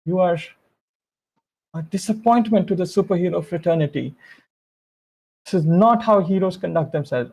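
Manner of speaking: mild stern reprimand, spaced out for effect; Miss Selby. Acted. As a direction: scold with measured, weighty disappointment. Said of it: "attitude as Miss Selby says".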